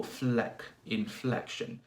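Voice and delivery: "fleck" picked out, then "inflection" stressed there; weight on the middle syllable of "inflection"; stress on FLEC. Shown as a demonstration. Teacher isolating the stressed syllable, "fleck" emphasized in "inflection". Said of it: "a stress on the second syllable".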